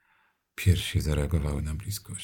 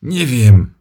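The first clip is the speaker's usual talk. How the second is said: loud, high cry of pain; shouted; 10 semitones higher, 18 dB louder than usual. Acted. Związany mężczyzna wykrzykuje w bólu. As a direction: yell it out. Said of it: "wykrzyczał".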